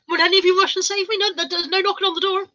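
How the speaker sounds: high, strained after a coughing fit; real post-cough strain; choked-up voice. Real, not acted. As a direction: talk through a tight, just-choked throat. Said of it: "I'm actually choking to death".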